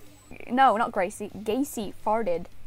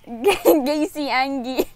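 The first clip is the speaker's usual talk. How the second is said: laughing; 2 semitones higher, 4 dB louder, slower than usual. Real, not acted. Laughing reading chat nickname.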